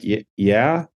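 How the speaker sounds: hesitant, questioning rise; mildly weirded out. Retold or imitated. Hailed by a stranger in public, mildly weirded out. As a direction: stumble slightly into a wary question. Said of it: "Like, weird that somebody said something".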